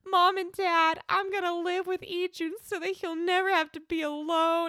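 a hint of an earnest child pledging; little girl voice. Retelling Bora's promise to her parents, in a light child voice.

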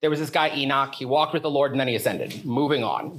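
mock-casual summary, brushed aside; throwaway line. Preacher sums up Enoch's brief Genesis story, as a throwaway line. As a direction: toss it off, low and offhand. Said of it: "it's, like, a throwaway line".

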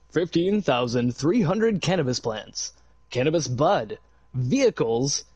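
slow, formal newsreader read; news reporter voice. Shown as a demonstration. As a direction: read it like a mock TV anchor. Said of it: "let me get on my news reporter voice".

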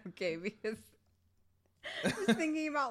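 laughing through held-back giggles; stifled giggles. Real, not acted. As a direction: try hard not to laugh out loud. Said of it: "I'm trying not to laugh too loud".

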